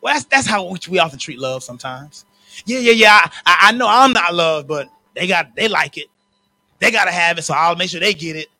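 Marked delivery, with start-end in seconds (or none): 2.7-8.5 loud, resigned duty voice; grudging dutiful voice. Pretend. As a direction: say it like a chore. Voicing dutiful unloved person.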